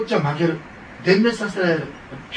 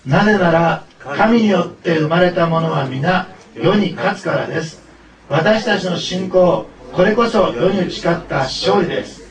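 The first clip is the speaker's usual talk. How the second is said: loud, slow recitation in measured phrases; leading unison reading; 6 dB louder, slower than usual. Real, not acted. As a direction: lead everyone through the verse, loud and slow. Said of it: "一緒に読みましょう".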